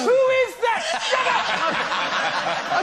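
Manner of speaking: high teacher's outburst; mock angry teacher. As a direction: imitate a teacher snapping at the class. Imitated teacher scolding the class.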